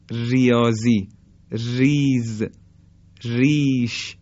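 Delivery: ریاضی، ریز، ریش with thin R; light R. Shown as a demonstration. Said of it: "این همون حالت ترقیق". (ریاضی، ریز، ریش با «ر» نازک)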